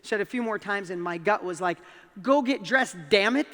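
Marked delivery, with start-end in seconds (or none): 2.2-3.5 mock exasperated command, punching the curse; starting to get mad. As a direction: imitate a parent losing patience. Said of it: "I was starting to get mad".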